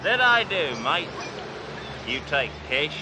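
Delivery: lightly put-on Aussie outback dealer; fake Australian accent. Cop posing as a rich dealer to the salesman, fake Australian accent. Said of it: "Name's Crocodile Bruce".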